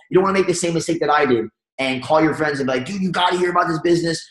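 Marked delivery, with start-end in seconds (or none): 2.9-4.2 pushy rambling pitch. Retold or imitated. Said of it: "You don't wanna puke on them".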